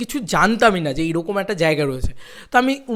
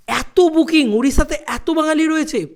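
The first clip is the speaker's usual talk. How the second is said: amazed exclaim; 8 semitones higher than usual. Real, not acted. Amazed at the bookings.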